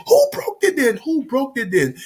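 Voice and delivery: high-pitched insistent demand; mock angry dad. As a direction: imitate a dad demanding the culprit.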